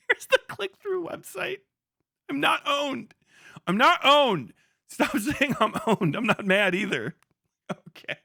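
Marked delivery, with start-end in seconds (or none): 0.1-1.6 squeaky high voice; high mock voice. 2.3-4.5 high, whiny repeated denial; insistent mock whine; mock insistence. Mocking streamer insisting. 4.9-6.2 mock whine. Mocking streamer.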